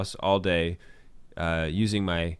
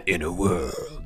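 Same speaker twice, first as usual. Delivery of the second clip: movie announcer voice; 3 semitones lower, much slower than usual. Acted. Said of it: "you narrate whatever is going on".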